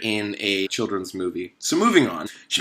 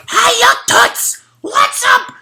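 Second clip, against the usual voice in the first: very high, loud, slow sleazy come-on; high beetle hitting on the girl; 6 dB louder, slower than usual. Acted. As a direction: lean in like a cheap charmer. Beetle voiced in the retelling.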